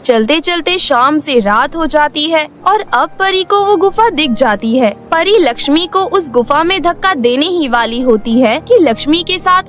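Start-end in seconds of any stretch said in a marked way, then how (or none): none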